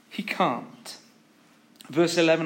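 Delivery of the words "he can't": quiet echo. Acted. Repeated he can't, dropped soft.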